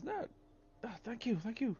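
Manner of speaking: put-on crackly grateful old-timer; old prospector. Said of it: "an old prospector, uh, voice".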